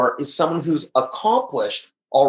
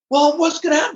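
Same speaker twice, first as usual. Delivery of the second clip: exasperated question; 13 semitones higher than usual. Retold or imitated. Retold argument with wife.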